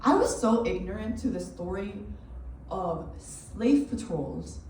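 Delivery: measured monologue, each phrase set apart by pauses; spoken-word performance. Acted. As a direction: recite it deliberately to an audience.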